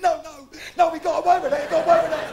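loud, insistent acted denial; forceful mock-impatient repeat; exasperated correction. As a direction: insist over the listener's sympathy. Mate insists louder each time.

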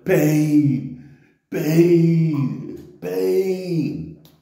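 loud drawn-out cries of pain, imitated; mock yelling the word over and over; retold yelling. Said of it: "Yelling and screaming to him".

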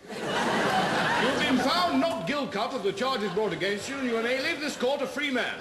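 slow, grand judge's pronouncement; milk the pun like a solemn judge; pompous verdict. Acted. Judge pronouncing verdict on the defendant, slow and grand.

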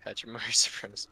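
Pachimari supremacy repeated through a laugh. Real, not acted. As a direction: giggle through the words.

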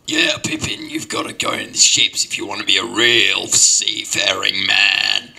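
old seafaring grandfather impression; mock bellowing grandpa voice; yelling grandpa. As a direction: put on a hammed-up old sea dog, hollering advice. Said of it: "Grandpa, lower your voice".

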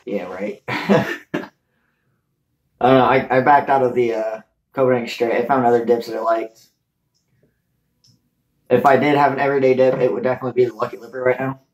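pausing to spit; talking with dip in. Real, not acted. Seen 0: Right speaker spits into cup at 5.1–6.2 s; lip bulge unclear.

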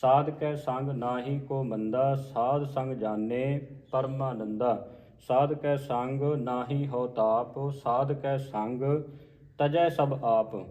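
slow, measured line-by-line reading; scripture recitation. Shown as a demonstration. Teacher modelling a scripture reading for learners, slow measured recitation. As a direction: recite each phrase slowly with pauses between.

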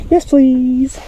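real excited plea; eager plea. Real, not acted. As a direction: beg the fish eagerly. Begging fish to bite.

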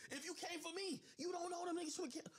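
real incredulous laugh; laughing disbelief. Real, not acted. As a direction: laugh at how absurd it is.

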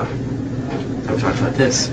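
slow hushed whisper, disappointed; whispered repeat. Acted. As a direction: breathe it slowly, barely voiced. Scolding Joe, repeated.

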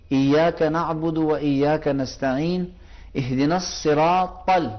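slow measured recitation of the Fatiha; unhurried recitation; Quranic recitation. Acted. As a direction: recite each verse slowly, letters full.

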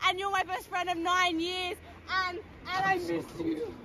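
mock drunk sentimentality; lightly imitated drunk friend. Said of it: "My name is Summer Finley also".

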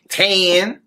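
high, exaggerated feminine country "Tan"; mocking teacher. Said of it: "because he did like this".

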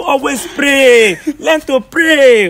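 slow, high, loud sermon stress; preachy emphasis. Acted. Pastor lectures the sinner, slow loud preaching. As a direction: drive each word home like from the pulpit.

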